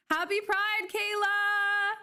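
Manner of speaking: high, bright call-out to a viewer; happy squealed shout-out; excited greeting. Real, not acted. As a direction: cheer her name up high.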